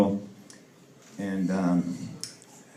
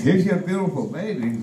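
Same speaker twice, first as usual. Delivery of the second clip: higher sing-out nurse voice; cheery nurse; 7 semitones higher than usual. Acted. Nurse brings a newborn to its father, cheerily. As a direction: present it proudly in a raised voice.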